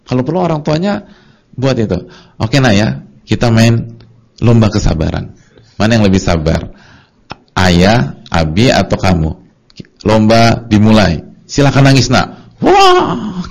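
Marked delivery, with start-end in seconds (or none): 2.4-12.6 put-on louder, slowed game-host voice to the child; a dad mock-announcing a crying contest to his child; playful announcer parent. 12.6-13.5 very high, loud exclamation; a child's startled high cry; squealed wah. Retold or imitated. Child reacts, voiced by preacher.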